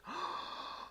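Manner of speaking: short acted gasp; shocked gasp. Vlogger acting out a reaction to the intro, mock gasp. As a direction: suck in air in mock shock.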